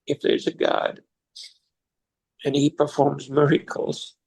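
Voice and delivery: fighting back tears while retelling; choked up. Real, not acted. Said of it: "I'm gonna get choked up".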